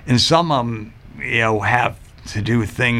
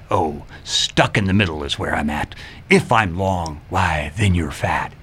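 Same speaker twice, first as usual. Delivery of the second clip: riddle voice; 5 semitones lower than usual. Retold or imitated. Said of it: "I would say it in that voice".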